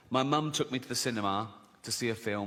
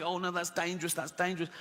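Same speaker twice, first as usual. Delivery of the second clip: timid worrier; 3 semitones higher, 4 dB quieter than usual. Retold or imitated. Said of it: "some people are so scared".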